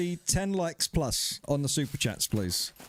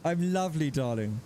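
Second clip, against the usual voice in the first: English accent again. Shown as a demonstration. Streamer re-reading the chat line in an English accent. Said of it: "I read it in an English accent".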